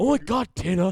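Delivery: very loud, upset outburst. Imitating someone getting upset at the mic: Napoleon Dynamite voice. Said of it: "it was like Napoleon Dynamite".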